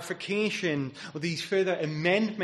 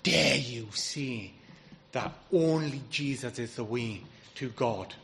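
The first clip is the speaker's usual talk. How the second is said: mock fury, measured rather than shouted; furious, retold; 2 semitones lower than usual. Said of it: "he was furious and he said".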